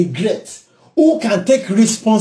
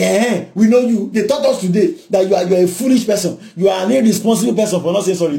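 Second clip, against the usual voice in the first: mock accusation; faster than usual. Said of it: "You're like".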